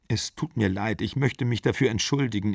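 soft, embarrassed apology; subdued apology. Acted. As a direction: apologise quietly to the man you spied on. Caught intruder apologises, embarrassed.

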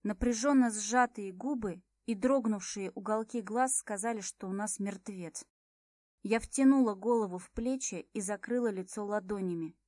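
plain reading voice

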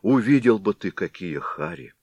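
frightened pleading. Acted. Frightened villagers plead with the Head.

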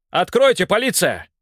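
громко, требовательно: «Откройте, полиция!»; стучит и требует открыть; громкий окрик. A narrator's reading. (полицейский стучит в дверь, громко требует открыть)

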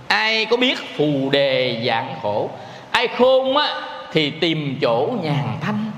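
slow chanted poem recitation; monk reciting a Buddhist poem to the congregation; recited verse. Acted. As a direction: intone the verse like a sermon poem. Recites a lục bát verse.

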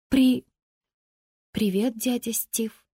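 halting, stammered greeting; shaken. A narrator's reading. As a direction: break off, then get it out slowly. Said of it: "потрясённая". (потрясённо, с запинкой)

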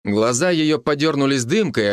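ordinary delivery

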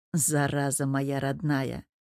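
low, soft and slow; tender. Acted. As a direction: murmur it lovingly to his wife. Нежный ответ мужа жене. (нежно, тихо и медленно)

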